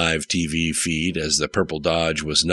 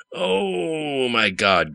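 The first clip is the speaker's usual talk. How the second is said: grunting; 8 semitones higher, much slower than usual. A narrator's reading. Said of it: "grunted Shelley".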